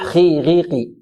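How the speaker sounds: slow خي غيقي with a clear i vowel; lowest tafkheem. Shown as a demonstration. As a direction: say خي غيقي only slightly heavy, vowels clean. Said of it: "الصحيح". (خي غي قي بتفخيم خفيف دون مبالغة)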